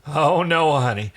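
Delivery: high, lilting "Oh, no"; sing-song. Acted. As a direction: tease her in a sing-song lilt. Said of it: "in a sing-song voice".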